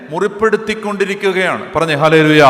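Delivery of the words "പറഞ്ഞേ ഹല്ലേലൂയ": loud call for response. Real, not acted. Preacher calls congregation response.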